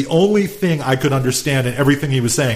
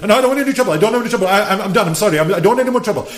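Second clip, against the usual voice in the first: higher, frantic mock pleading; imitating a guy begging to be left alone; scared pleading; 7 semitones higher, much faster than usual. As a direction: beg like a frightened drunk. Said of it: "He's like".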